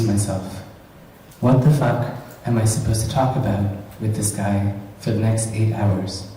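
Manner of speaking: deliberate, lightly performed poetry reading; measured recital with dry pauses; poem reading. Acted. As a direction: read your poem to a live audience, line by line. Reads own short poem aloud.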